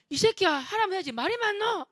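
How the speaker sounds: high, sharp yelled threat; angry bully yell. Retold or imitated. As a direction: snap at the kid to obey. Bully yelling at boy.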